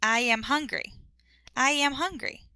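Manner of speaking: "I am hungry" with a y sound joining I to am; linked with y glide. Shown as a demonstration. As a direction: say "I yam hungry" smoothly. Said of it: "like this".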